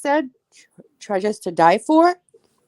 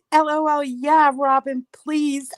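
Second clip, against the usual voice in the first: much higher, shrieking with delight; excited squeal; 5 semitones higher, 4 dB quieter than usual. Real, not acted. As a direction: squeal as you read it out. Excitedly reading a chat message.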